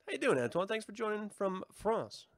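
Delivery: a light, hammed-up French accent; mock French accent. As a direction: greet Antoine in a half-hearted French accent. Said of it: "try to do your accent ... like I just did".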